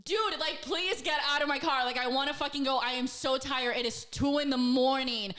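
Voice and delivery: mild mock yell at a guest who won't leave; exasperated at two in the morning, mildly yelling; retold yell. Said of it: "I had to yell at him".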